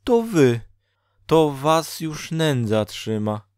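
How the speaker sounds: high, loud, drawn-out amazement; astonished exclamation. A narrator's reading. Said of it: "wykrzyknęła zdumiona Dola". (wysoki, głośny, zdumiony głos)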